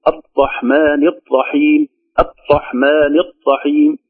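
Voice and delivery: slow الرحمن الرحيم with a hard, blocked R; over-tightened R. Shown as a demonstration. Teacher imitating overzealous tajweed readers, R too tense. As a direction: press the R of الرحمن until the sound stops. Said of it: "الذي يهتم بالتجويد يشددها".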